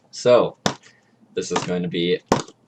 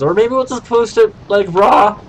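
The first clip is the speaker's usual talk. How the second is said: voice cracking; 11 semitones higher, 4 dB louder than usual. Real, not acted. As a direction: pitch jumps up and cracks. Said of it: "And my voice just cracked".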